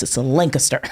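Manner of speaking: Lancaster said the local way, laughing; Pennsylvania Lancaster. Retold or imitated. Churchgoer correcting her, a local Lancaster. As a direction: mimic the local pronunciation. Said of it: "he goes".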